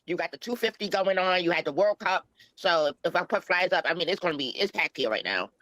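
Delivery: disguised voice through a voice changer. Real, not acted. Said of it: "Is this Nick with a voice changer?".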